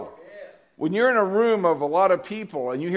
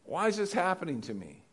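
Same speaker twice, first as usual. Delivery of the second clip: softer, toned-down plea to God; subdued complaint; 2 semitones higher, 5 dB quieter than usual. Acted. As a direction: ask it quietly, after the big outburst. Repeats the complaint, now more softly.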